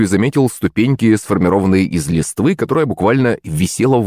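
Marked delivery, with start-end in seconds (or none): none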